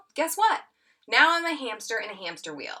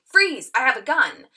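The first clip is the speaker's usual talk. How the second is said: acted stickup line; 4 semitones higher, 8 dB louder than usual. Acting out improv scene line.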